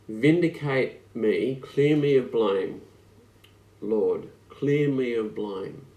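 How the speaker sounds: slow, earnest plea; pleading cry. Retold or imitated. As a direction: beg the Lord gently. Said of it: "It's a cry".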